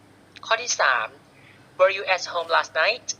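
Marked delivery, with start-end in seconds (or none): 1.8-3.1 "were you at home last night" rising on "night"; yes-no question ending high on "night"; rising intonation. Shown as a demonstration. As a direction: lift the pitch at "night". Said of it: "งท้ายประโยคด้วยเสียงสูง".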